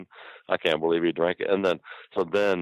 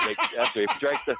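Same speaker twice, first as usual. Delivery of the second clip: ordinary delivery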